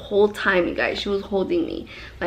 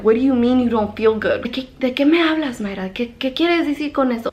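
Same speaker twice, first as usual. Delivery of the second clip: retold angry mom; 3 semitones higher, 3 dB louder, faster than usual. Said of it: "She was so mad".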